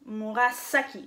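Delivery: Murasaki with a long, hissed S in "saki"; S non voisé. Shown as a demonstration. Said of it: "vous prononcez S". (Murasaki avec un « s » sifflant, bien appuyé)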